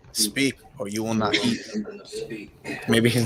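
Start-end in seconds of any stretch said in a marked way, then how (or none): 0.1-1.6 tv through the wall. Real, not acted. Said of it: "Somebody's T V's loud".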